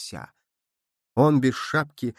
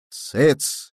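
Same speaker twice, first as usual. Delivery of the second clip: sharp shout; 3 dB louder than usual. A narrator's reading. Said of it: "громко крикнул Ромась".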